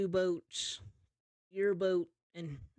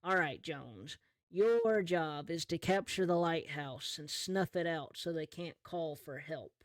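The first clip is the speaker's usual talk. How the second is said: captain giving orders. Acted. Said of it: "flashback to what the captain told Jones".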